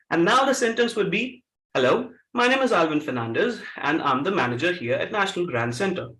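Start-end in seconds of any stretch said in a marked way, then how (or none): 1.7-6.1 low Karachi-accented English with reduced R's; urban Karachi accent. Shown as a demonstration. Trainer demonstrates the converted sentence to a class, urban Karachi accent. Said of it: "Karachi accent".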